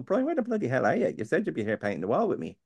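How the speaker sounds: exasperated mock yell at a friend; mock angry friend. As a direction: yell at the mate who never turned up. Angry friend who didn't show.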